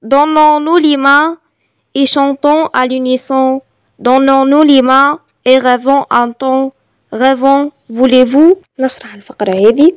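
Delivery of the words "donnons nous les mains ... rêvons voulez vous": measured, evenly phrased poem reading; poem recitation. Shown as a demonstration. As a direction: recite it line by line for learners. Reads poem aloud to learners. (إلقاء قصيدة بتأنٍّ)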